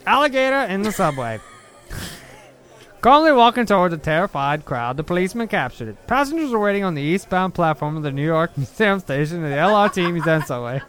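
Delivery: put-on old-time New York newsreader accent. Reading the clip to his friend in a New York accent. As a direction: read it like an old New York radio announcer. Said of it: "That is my New York City, Boston, Massachusetts accent".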